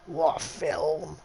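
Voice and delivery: savouring each word of what a film; drawn-out exclamation. Real, not acted. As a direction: stretch it out in awe. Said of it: "one of my favourite films".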